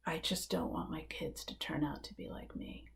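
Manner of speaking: soft, whispered, near tears; crying. Retold or imitated. Father confessing fear for his kids, crying whisper. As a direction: let the words break into a hushed cry. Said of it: "he starts crying as he says it".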